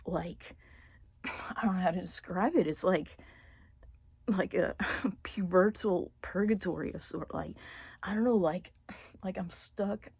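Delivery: emotional whisper. Real, not acted. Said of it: "I'm not getting too emotional".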